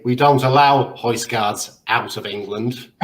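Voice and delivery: slow, lightly imitated Scouse; a hint of broad Scouse officialdom; broad Scouse accent. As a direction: retell it in a slowed Liverpool accent. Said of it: "I heard this broad Scouse accent say".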